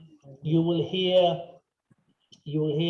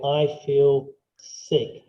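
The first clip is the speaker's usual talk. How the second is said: slow queasy groan; 4 semitones lower, 4 dB louder, much slower than usual. Shown as a demonstration. Teacher slowly acting sick for students. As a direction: drag out feel sick slowly, as if ill. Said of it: "you put one hand on your stomach".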